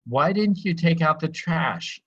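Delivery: pitched high and slow, accusing. Shown as a demonstration. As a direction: ask it with a rising edge of blame. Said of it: "if my voice is raised when I ask the question".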